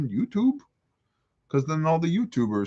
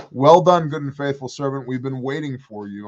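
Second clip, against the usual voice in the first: voice of the Creator; 4 semitones higher, 6 dB louder than usual. Retold or imitated. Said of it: "he goes".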